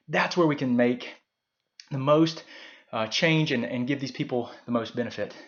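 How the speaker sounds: breathless, catching breath between phrases; talking while out of breath. Real, not acted. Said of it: "Sorry, I'm so out of breath".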